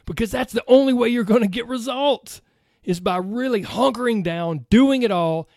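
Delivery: pumped-up self-help guru voice; motivational hype. Pretend. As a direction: sell it like a fired-up coach. Mock motivational hype speech.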